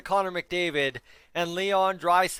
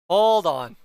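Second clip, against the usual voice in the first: loud; 7 dB louder than usual. Real, not acted. Repeats it, much louder.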